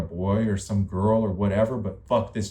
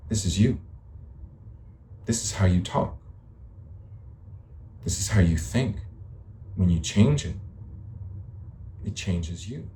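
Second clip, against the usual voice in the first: lower, drawled imitation with long gaps; mimicked drawl; 4 semitones lower, 3 dB quieter than usual. Shown as a demonstration. Showing someone how they talk, in a lower mimicked drawl. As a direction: draw the words out low to mimic someone. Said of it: "It's kinda like a drawl".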